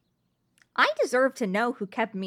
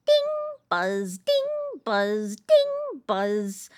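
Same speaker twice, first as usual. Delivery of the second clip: mocking phone noises; 4 semitones higher, much slower than usual. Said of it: "constant buzzing".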